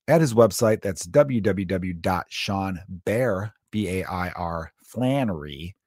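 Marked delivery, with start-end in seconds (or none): 4.8-5.8 Flannery drawn out slightly with a small lift at the end; name owner's delivery. Retold or imitated. Podcaster reading out a guest's website, lightly imitating him. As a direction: lightly imitate how he says his own name. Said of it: "He always says it like that".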